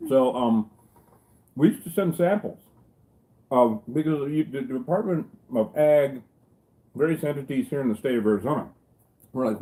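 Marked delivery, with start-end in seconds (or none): 0.1-6.2 talking through a mouthful of pie; words around a bite of food; mouth full. Real, not acted. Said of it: "oh, I can talk with my mouth full. Watch".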